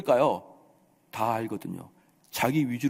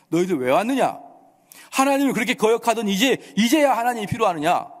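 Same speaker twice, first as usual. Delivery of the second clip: raised, louder indignant scolding; thundering rebuke; 7 semitones higher, 5 dB louder than usual. Acted. Man of God to kings seeking help, thundering rebuke. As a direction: rebuke them like a fearless prophet. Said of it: "이렇게 호통을 칩니다".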